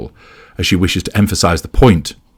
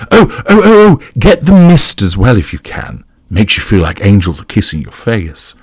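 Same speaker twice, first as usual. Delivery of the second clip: laughing gush, rehearsed; 3 semitones higher, 5 dB louder than usual. A narrator's reading. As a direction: gush with put-on delight, no real laugh. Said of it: "she laughs".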